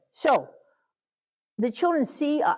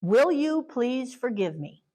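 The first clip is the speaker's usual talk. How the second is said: sincere apology; 4 semitones higher, slower than usual. Shown as a demonstration. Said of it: "the way that I've always done it".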